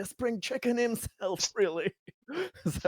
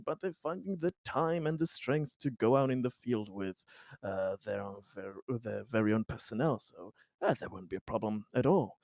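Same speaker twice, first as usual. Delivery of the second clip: lightly voiced persuader, swinging pitch on key words; smooth-talk them into it, in light character; a hint of a reassuring smooth talker; smooth-talking politician. In character as Conrad.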